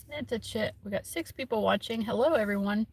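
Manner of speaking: talking while eating breakfast; mouth full. Real, not acted. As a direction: speak around a mouthful of food. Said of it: "I'm just eating my breakfast".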